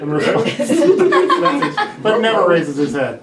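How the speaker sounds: loud and high, narration broken by laughter; laughing. Real, not acted. Narrator reading stage directions, cracking up mid-line. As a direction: read on while laughing.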